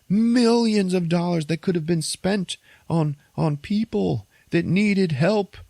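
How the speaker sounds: high, heated villain speech; a lightly voiced villain, pitched high and heated; ranting villain. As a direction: lecture the vigilante with scorn. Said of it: "he's like".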